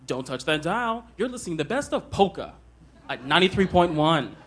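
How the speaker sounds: mild radio DJ patter, brisk; a touch of a radio host selling the station; lightly done radio announcer. Shown as a demonstration. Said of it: "I tried things like on the radio".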